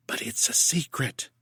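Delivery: soft secretive whisper. A narrator's reading. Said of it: "and then whispered".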